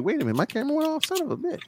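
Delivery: high, fast startled outburst; sudden panicked realization. Retold or imitated. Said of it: "I was like".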